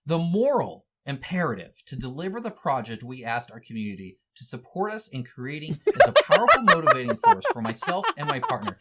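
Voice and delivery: laughter breaking into the quote; reading through laughter. Real, not acted.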